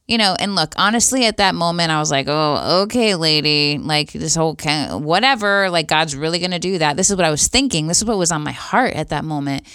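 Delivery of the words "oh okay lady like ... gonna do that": mock-dismissive inner retort; retold eye-rolling doubt; skeptical. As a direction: brush it off, retelling your disbelief. Retold skeptical inner reply to facilitator.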